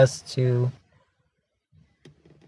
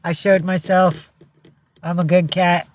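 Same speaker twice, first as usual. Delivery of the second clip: lightly voiced cat, a bit higher; cat's voice; 3 semitones higher than usual. Owner speaking as her cat to viewers, lightly put on. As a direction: speak for a pet, pitched slightly up. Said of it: "He says".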